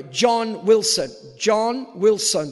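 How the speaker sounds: counting the syllables of an easy name aloud; slow, counted-out name. Shown as a demonstration. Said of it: "three syllables".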